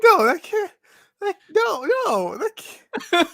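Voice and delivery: sounding about to vomit. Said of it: "You sound like you're gonna vomit".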